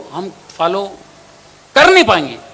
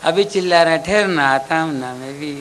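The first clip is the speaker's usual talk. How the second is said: calmly mock the latecomer; God calmly teasing the old man who never came to church; God's reply; 2 semitones lower, 4 dB quieter than usual. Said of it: "God बोलेगा".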